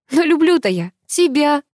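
high, pained plea; anguished cry. A narrator's reading. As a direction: cry it out in despair. Heroine cries out in anguish.

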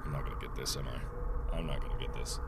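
very soft, resigned murmur; quiet dread. Real, not acted. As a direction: mumble it, already beaten.

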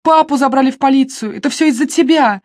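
a sister shouting her brother down. A narrator's reading. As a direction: keep yelling the blame. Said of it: "закричала Нэнси".

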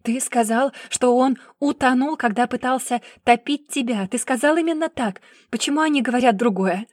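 loud, high, demanding; angry confrontation. Acted. Sister grabbing her brother's hair, angrily demanding. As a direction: press him hard for the truth.

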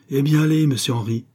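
stirred send-off, starting high and loud; deeply moved. A narrator's reading. Uncle sending the young man off, deeply moved voice. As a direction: give leave with feeling, easing down on the name. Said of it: "d'une voix profondément émue".

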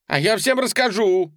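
put-on high, loud kid's yell; boy yelling a threat at Donna. A narrator's reading. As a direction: shout the threat out. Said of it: "заорал он".

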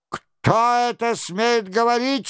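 high-pitched, commanding demand; indignant challenge. A narrator's reading. Captain demands who dares answer him, indignant.

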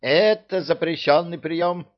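high, loud squealing protest. Acted. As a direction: shriek it indignantly. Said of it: "взвизгнул бес".

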